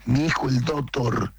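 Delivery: "doctor" pronounced "dotor"; no K sound in "doctor", just "dotor"; dropped C. Shown as a demonstration. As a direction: leave out the C of "doctor". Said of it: "sin C".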